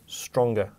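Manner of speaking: "stronger" set apart on its own and stressed, with a falling close; emphasized word. Shown as a demonstration. Teacher singling out "stronger" for exam students, stressed. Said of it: "I'm leaving one word here".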